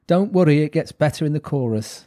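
mock Robbie in a clumsy Welsh accent; bad Welsh accent. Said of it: "That's a really bad accent".

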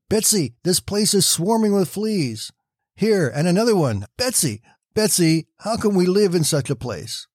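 a reader's lightly voiced panic; dismayed cry. A narrator's reading. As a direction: sound horrified at the swarming fleas. Corrie panics over the fleas.

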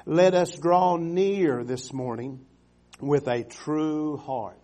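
drawn-out solemn reading of the verse; slow scripture reading. Acted. Preacher reading scripture slowly to the congregation. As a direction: read the verse slowly, weighing each word.

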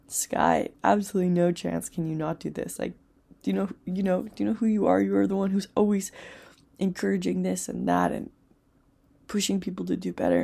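lightly voiced coach urging her on; inner cheerleader. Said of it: "this cheerleader being like".

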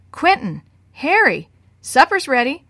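loud call with falling ends. Acted. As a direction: call the boys in from below. Parent calling boys to supper.

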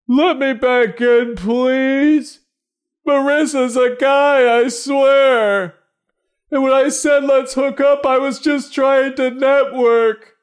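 very high, slow cartoon squeak begging; high squeaky begging to be let in; squeaky pleading voice. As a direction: plead in a tiny high-pitched voice. Tree yells to be let in.

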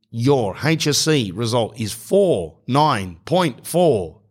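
slow, measured automated phone readout; robot. Acted. Automated line giving the exam result, robotic. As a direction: read it digit by digit like a robot. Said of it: "like, by a robot".

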